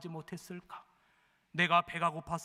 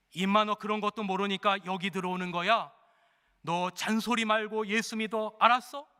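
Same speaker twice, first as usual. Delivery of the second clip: louder, higher, slowing to a barked demand; bully him into believing; gruff scolding convict; 3 semitones higher, 4 dB louder than usual. Acted. Condemned convict browbeating a young inmate, loud and rough.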